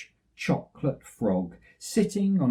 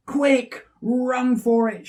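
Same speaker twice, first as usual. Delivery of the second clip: urgent call, higher and louder; mild shout; 9 semitones higher, 5 dB louder, slower than usual. Acted. Daddy Bear warning his family, urgent shout. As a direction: hurry the family away. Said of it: "shouted Daddy Bear".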